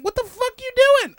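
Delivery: high, loud incredulous yell; high loud mock disbelief; retold yell. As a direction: shout it at your friend. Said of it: "look at me like".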